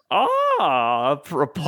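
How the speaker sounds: lightly acted British man, drawn-out reaction. British man reacting to Kate's proposal plan, lightly hammed-up intrigue. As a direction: play an intrigued British party guest, lightly. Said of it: "the gay British man is like".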